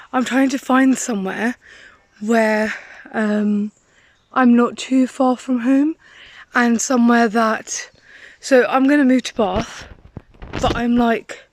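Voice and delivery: winded, words between breaths. Real, not acted. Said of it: "wait, I'm so unfit".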